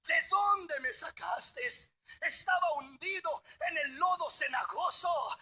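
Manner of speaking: loud fervent praise to God; loud praise preaching. Acted. Preacher praising God before the church, loud and fervent. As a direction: cry out thanks like a preacher.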